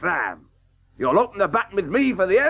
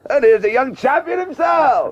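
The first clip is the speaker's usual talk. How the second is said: louder, higher hearty welcome; booming fatherly welcome; proud greeting; 6 semitones higher, 5 dB louder than usual. Acted. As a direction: announce him like a hero.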